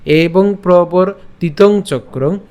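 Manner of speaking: slow, measured Sanskrit verse recitation; deliberate shloka reading, word by word; pronunciation recital. Shown as a demonstration. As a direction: draw out the long syllables for learners. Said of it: "আমি আবার বলছি".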